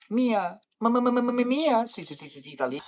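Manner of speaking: high, hammed-up wail of mia; mock Italian wail. Streamer hamming it up for chat, high mock wail.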